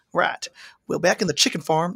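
cowboyish Southern character voice; Southern accent. Pretend. Host playing Johnny Two Kicks, Southern accent. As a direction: settle into a playful Southern twang. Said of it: "You have a very good Southern accent".

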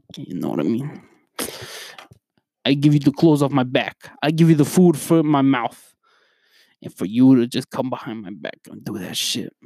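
lightly acted New York gangster threat. Gangster boss threatening a man who took his money, New York gangster impression. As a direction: play a menacing New York mob boss. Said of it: "my New York gangster impression".

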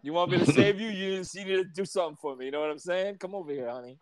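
proposition her like a Brooklyn guy; lightly hammed Brooklyn wheedling; Brooklyn Mario. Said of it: "talk like a regular Brooklyn".

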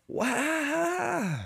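long, high "waaah"; high drawn-out wail. Real, not acted. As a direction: let out a high comic wail. Vents as the long rant ends.

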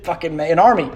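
put-on high, quick childish excitement; lightly voiced excited child; imitating eager kid. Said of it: "I was like".

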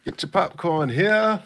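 lightly voiced vendor call, slow; stadium vendor hawking. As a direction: call out like a ballpark seller. Mock stadium vendor calls.

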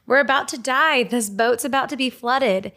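high, urgent cry of panicking men; panicked disciples. Retold or imitated. Disciples waking Jesus in the storm, panicked and high. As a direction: beg the sleeping master to wake, scared. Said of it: "disciples started to panic".

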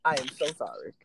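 slow, drawn-out mock apology; mock-solemn apology. Host apologizing after an offensive joke, mock-solemn.

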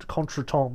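"contretemps" said the French way, nasal "kon-truh-tahn"; French pronunciation. Shown as a demonstration. Teacher shows the fancy French word "contretemps" to the class, pronounced the French way. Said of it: "fancy French word".

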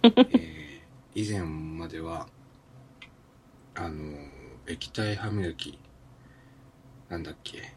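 talking through a toothbrush; while brushing teeth. Real, not acted. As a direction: mouth full of toothpaste, slurred. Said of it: "歯を磨きながら収録を終えたい". (歯磨きしながら話す)

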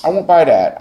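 a forceful, fast objection; emphatic outburst. Real, not acted. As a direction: cut her off and refuse it outright. Host rejects her self-judgment.

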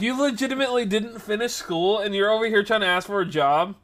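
high-pitched, rising disbelief; incredulous. Retold or imitated. Worker to lady asking for a job, incredulous. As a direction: question it in acted astonishment, voice pushed up.

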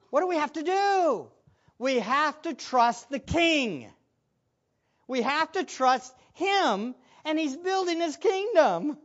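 measured, weighty sermon exhortation; emphatic preaching. Real, not acted. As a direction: press each phrase home to the congregation.

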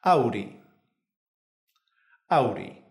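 "Auri" with the R tapped just once; single-tap R. Shown as a demonstration. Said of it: "Para practicar la R simple".

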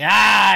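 short loud "ah" yell; quick burst of a holler; acted roar. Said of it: "you're like".

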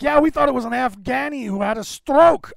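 high, loud mock Scottish accent; bad Scottish accent. Host retelling a comedian's joke, in a loud mock Scottish accent. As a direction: imitate a Scottish comedian's punchline, badly. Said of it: "I can't even do a Scottish accent".

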